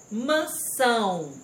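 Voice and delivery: "Mansão" slow, weight on long SÃO; stressed syllable demo. Shown as a demonstration. Teacher showing pupils the tonic syllable, slow and emphatic. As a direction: stretch the final SÃO of "Mansão". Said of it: "Circule a sílaba tônica".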